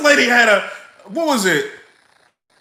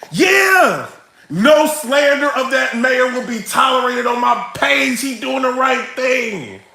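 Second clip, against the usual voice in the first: mock cheerful agreement; 4 semitones higher, slower than usual. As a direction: play the naive supporter who's all in. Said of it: "I was just like".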